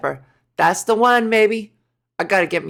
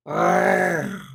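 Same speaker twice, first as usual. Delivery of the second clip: gargling growl; 2 semitones lower than usual. Shown as a demonstration. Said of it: "to do it properly".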